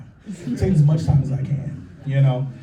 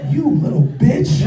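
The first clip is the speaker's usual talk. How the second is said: mock outrage; 5 semitones higher, 5 dB louder, slower than usual.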